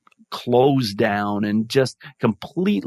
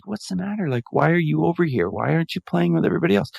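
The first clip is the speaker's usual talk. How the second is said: higher, quick run of questions; lightly acted checking-in, pitched up and hurried; concerned questioning; 5 semitones higher, much faster than usual. Teacher asking an unhappy boy by the wall, concerned and quick.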